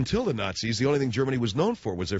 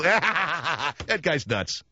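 laughing; 3 semitones higher, much slower than usual. Real, not acted. Laughs at own bit.

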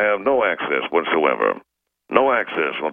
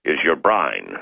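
put-on Cockney accent; slower than usual. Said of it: "That's my Cockney accent".

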